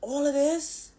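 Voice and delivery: high, loud astonished cry; shocked disbelief. Retold or imitated. Teen shocked at her father's yelling, loud disbelief. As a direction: gasp it out in disbelief. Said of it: "I was like".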